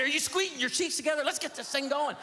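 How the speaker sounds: high-pitched, pushy wife imitation; mock an intense wife urging a power walk; passionate wife. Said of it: "she is a passionate woman".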